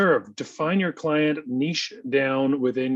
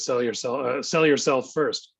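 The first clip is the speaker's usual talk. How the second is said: slow emphatic quote; slower than usual. Retold or imitated. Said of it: "Grant Cardone says".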